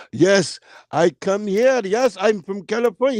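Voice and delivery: imitating an Arab food vendor's accent; put-on Arab accent, each word set apart. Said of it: "He was an Arab too".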